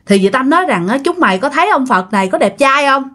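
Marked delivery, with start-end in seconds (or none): 1.0-3.0 higher-pitched playful teasing of friends; joking, playful. Retold or imitated. Girl jokes to friends about a Buddha statue, playful. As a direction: imitate a girl clowning for her friends. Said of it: "vừa nói vừa cười vừa giỡn như thế".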